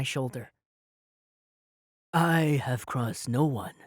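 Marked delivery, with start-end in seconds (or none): 2.1-3.7 calm and even. A narrator's reading. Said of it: "Eric's voice was frighteningly even".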